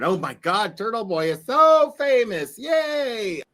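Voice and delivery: high, loud, gushing mock excitement; mock fangirl. To the stream, mocking a Turtle Boy fan with fake squealing delight. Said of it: "I'm not sitting here going".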